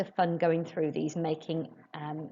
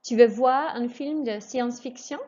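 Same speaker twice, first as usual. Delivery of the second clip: higher teacher model, lifting at the end; rising question tune; 5 semitones higher than usual. Shown as a demonstration. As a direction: end science-fiction on a rise. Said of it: "raise your voice just before the question mark".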